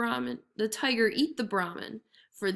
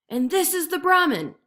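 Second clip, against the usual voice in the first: impatient tiger; 8 semitones higher, 7 dB louder than usual. A narrator's reading. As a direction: spell it out to a fool. Tiger explains.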